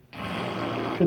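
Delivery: breathy, voiceless whack sound; imitated impact. Fire thrown on the praying man's back, imitated impact.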